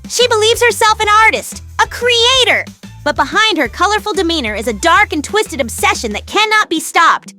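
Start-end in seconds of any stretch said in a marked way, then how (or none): 0.1-2.6 melodramatic, theatrical alarm; dramatic warning. Acted. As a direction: proclaim it like a dire revelation. Dramatic warning about a threat.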